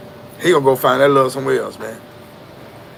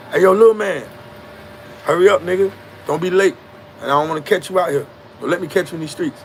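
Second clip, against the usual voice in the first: calling out; 5 semitones higher than usual. Retold or imitated. Dealer calling out to kid.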